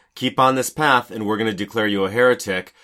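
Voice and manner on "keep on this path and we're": usual speaking voice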